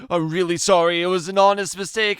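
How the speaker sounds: high, loud, hurried sorry; nervous young driver apologizing; flustered apology. Acted. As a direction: blurt it out, embarrassed. Jeremy apologizes for the mistake.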